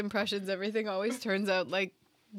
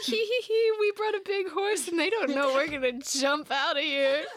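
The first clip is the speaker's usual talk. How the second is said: high, loud giddy squeal; mischievous schemer bursting with glee; giggling hidden soldiers; 7 semitones higher, 4 dB louder than usual. Acted. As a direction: gloat in a high giggly voice about the ambush. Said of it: "inside of a wooden horse giggling".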